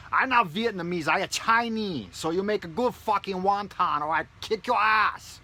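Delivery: high, loud put-on Chinese-English accent; mock Chinese accent. Mocking a Chinese customer at a wonton restaurant in a loud put-on Chinese accent. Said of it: "Go in there and be like".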